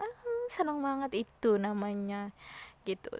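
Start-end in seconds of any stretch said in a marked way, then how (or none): 0.0-1.3 higher, dreamy happy sigh; pretend delight. Teacher acting someone visited by a sweetheart, pretend delight. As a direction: swoon a little with a smile in the voice. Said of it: "seneng, berseri-seri, senyum terus".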